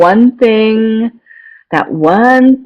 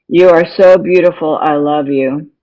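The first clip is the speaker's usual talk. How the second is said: flat robotic recital; robot voice, reciting without feeling; 2 semitones lower than usual. Retold or imitated. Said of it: "And I sounded like a robot".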